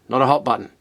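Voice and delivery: "hot" punched and falling; stress on hot. Real, not acted. Reviewer ruling out heat, stress on "hot". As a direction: hit "hot" hard, then drop. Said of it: "So just let me clarify that".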